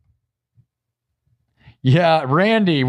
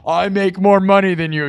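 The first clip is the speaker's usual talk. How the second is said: mock bragging troll; 6 semitones higher than usual.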